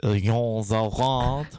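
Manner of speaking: slow Quebecois pronunciation; Quebecois accent. Pretend. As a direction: draw out the name in Quebecois French. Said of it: "his great Quebecois accent".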